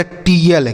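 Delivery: TIAL read as "टी एल" with a hard T; wrong pronunciation. Shown as a demonstration. Teacher showing a beginner's misreading, "टी एल" with hard T. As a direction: say "टी एल" with a T sound, as spelt. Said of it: "उसका गलत उच्चारण ही करेगा".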